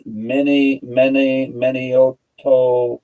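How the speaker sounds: Manioto sounded out slowly, MAN-ee-oh-toh, each syllable drawn out; careful Māori pronunciation. Shown as a demonstration. Pronouncing a Māori place name for viewers, slow and careful. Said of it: "the Māori word that I can pronounce for you".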